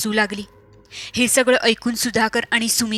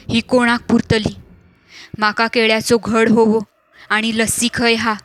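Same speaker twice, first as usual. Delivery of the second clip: strange possessed voice; 4 dB louder than usual. Acted. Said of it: "विचित्र हसायला लागली".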